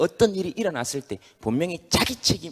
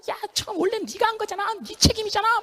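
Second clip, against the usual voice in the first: very high, tiny accusing voice; high squeaky organs. Acted. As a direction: squeak the blame at the head. (머리를 탓하는 아주 높은 가성)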